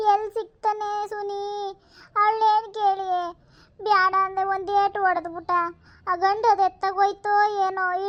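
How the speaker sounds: lightly voiced fretting grandmother; worried grandmother. Grandmother worrying over the lost grandson, lightly voiced.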